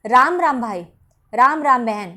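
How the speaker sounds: greeting with long vowels in "राम राम"; drawn-out greeting. Shown as a demonstration. Greeting a brother or sister, words drawn out. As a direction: stretch "राम राम", let it fall. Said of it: "पदों को खींच कर बोल रहे हो".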